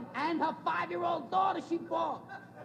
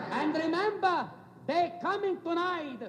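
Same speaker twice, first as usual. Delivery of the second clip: put-on emphatic Italian-accented papa's warning; put-on Italian accent, spelling it out firmly; Italian father's accent. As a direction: lightly mimic an Italian father giving orders. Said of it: "He says".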